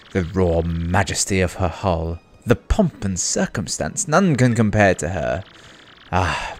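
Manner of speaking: lightly voiced grandiose ship owner; a touch of pompous admiration; boastful ship owner. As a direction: show off your beloved ship with mild theatrical flourish.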